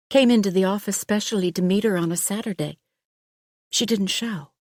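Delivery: an anxious doctor hurrying to explain; worried doctor. Acted.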